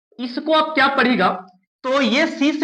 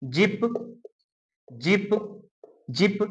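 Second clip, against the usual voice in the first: model pronunciation; 3 semitones lower, 8 dB quieter, much slower than usual. Shown as a demonstration. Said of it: "जिप हो गया".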